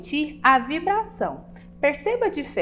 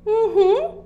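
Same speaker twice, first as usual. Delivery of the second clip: put-on child voice; 10 semitones higher, 4 dB louder than usual. Child pupil agrees.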